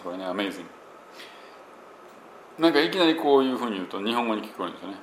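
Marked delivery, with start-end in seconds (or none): 0.2-0.7 アメイジング said katakana style, every syllable ending in a vowel; アメイジング flat and syllable-timed like a Japanese word; Japanese-style amazing. Shown as a demonstration. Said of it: "今僕日本語的に喋ってます". (日本語っぽいアメイジング)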